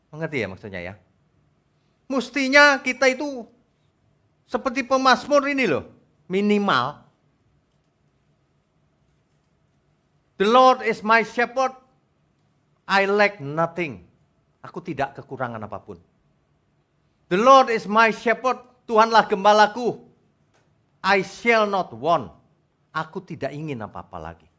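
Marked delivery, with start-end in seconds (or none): 2.1-14.1 loud, high sermon declaration; slow, ringing pulpit delivery; emphatic preaching. Real, not acted. Preaches at full force. 17.3-22.3 loud, high sermon declaration; slow, ringing pulpit delivery; emphatic preaching. Real, not acted. Preaches at full force.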